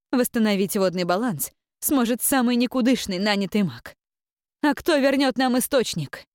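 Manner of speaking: high, loud, stern rebuke; stern abbess. Acted. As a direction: scold her from above.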